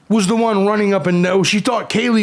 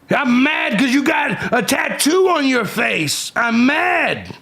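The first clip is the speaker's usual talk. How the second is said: mock angry shout; 5 semitones higher, slower than usual. Mocking the troll's anger.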